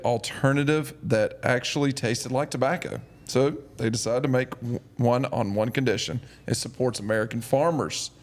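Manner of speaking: measured podcast ad read; sponsor ad read. Real, not acted. Host reading sponsor copy to listeners, ad read.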